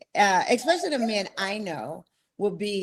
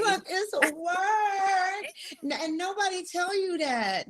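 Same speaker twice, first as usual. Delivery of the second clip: laughing agreement; 9 semitones higher than usual. Real, not acted. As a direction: laugh out the truth you both know. Agreeing marriage is hard work.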